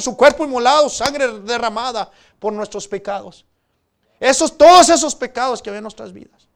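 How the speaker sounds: predicación fuerte, con voz proyectada; proclámalo con fervor ante la congregación; prédica enérgica. Real, not acted. (prédica encendida)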